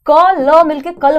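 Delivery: क and ल said apart, then blended into कल; slow, loud teacher's sounding-out of कल; sounding out letters. Shown as a demonstration. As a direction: say क, ल separately, then join them as कल. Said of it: "ध्वनि कैसे बनाते हैं".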